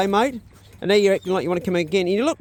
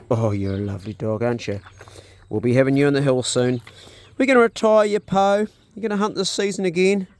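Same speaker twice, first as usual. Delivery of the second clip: fond dog talk; 5 semitones lower than usual. Real, not acted. Talking fondly to his dog.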